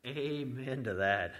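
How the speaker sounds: slow, drawn-out churchgoer's amen; lightly preacherly, slow assent; Baptist-style amen. Acted. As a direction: stretch the amen like an affirming Baptist. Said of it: "you sound a little like a Baptist".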